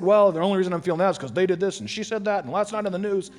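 rattling off excuses, fast; hurried self-justifying mock voice; fast rationalizing. Pastor mimicking a listener's excuses, fast and hurried.

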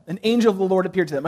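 rattled off fast and flat; just read it through quickly; a fast, offhand reading of the verse; quick plain read. Shown as a demonstration. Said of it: "you can kind of just read this".

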